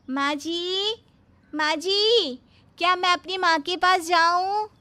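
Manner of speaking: high, loud, sweetly overeager; sugary bahu voice. Acted. Bahu asking her mother-in-law about cutting potatoes, sugary and high. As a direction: lay the sweetness on thick.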